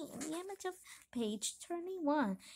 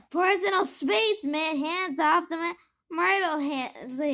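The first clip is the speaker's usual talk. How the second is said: annoyed; 3 semitones higher, 6 dB louder than usual. Acted. Pity pushing Big Jim off.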